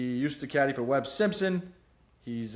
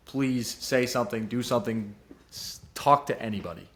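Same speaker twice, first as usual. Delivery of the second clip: serious sincere tone; 2 semitones lower than usual. Real, not acted. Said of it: "in a serious note".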